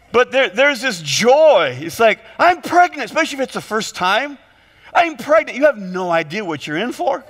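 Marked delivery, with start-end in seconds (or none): 2.4-3.0 excited happy announcement, pitched up; higher-pitched, thrilled expectant parent. Acted. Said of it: "You're just excited". 4.9-5.6 lightly acted excited announcement; a touch of thrill, pitched up. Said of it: "You're just excited".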